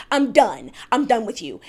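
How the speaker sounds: acting out Mary storming off, loudly fed up; mock angry. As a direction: slam the door on the friendship, loud. Mary storms off in retold quarrel.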